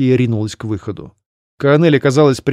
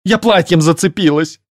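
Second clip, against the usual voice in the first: moan; 5 semitones higher than usual. Acted. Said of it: "простонала высокородная".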